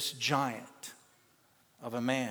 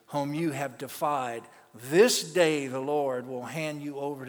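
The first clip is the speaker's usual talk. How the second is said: louder and louder, rising to a proclaiming shout; David's bold defiance; 4 dB louder than usual. Acted. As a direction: declare victory over the giant. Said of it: "David said to Goliath".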